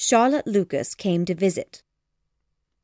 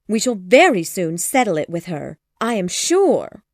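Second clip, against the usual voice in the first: higher, louder fretting mother; an anxious mother insisting, louder; fussy mother; 3 semitones higher, 4 dB louder than usual. Acted. Mother reassuring Mr Collins, fretful and loud. Mrs Bennet voiced by narrator.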